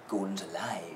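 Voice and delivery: low, soft hushed line; really quietly. Retold or imitated. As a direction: say it almost under the breath. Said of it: "He says it really quietly".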